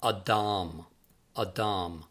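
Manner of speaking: "Adam" said as ah-DAHM, stress on the last syllable; careful Hebrew "Adam", ah-DAHM; Hebrew pronunciation. Shown as a demonstration. Author teaching readers a Hebrew word, careful ah-DAHM. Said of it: "that is pronounced Adam".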